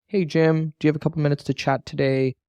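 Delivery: mock-timid, asking permission to chat; lightly hammed-up needy caller; seeking approval. Shown as a demonstration. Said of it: "don't wanna sound like we're actually seeking approval".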